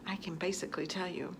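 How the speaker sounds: quick hushed whisper; secretive whisper to the camera. Real, not acted. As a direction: lean in and whisper it fast. Confiding aside to viewers.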